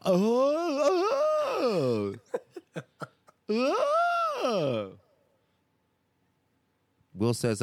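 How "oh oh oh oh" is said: laughing. Retold or imitated. Phil fumbles, host cracks up.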